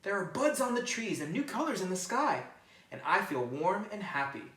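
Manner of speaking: a little bird glad the sun is out; happy bird. A narrator's reading. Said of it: "said Bird".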